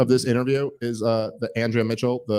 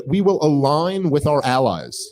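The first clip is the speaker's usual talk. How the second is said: mock vice president; slower than usual. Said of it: "She just said".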